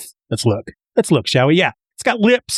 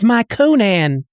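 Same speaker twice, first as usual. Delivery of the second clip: acted dying woman; 5 semitones higher, slower than usual. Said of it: "she sees him and she says".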